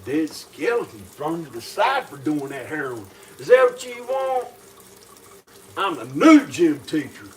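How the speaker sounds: loud belligerent rant; belligerent drunk. Acted. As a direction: bark threats at the class. Gym teacher yells threats.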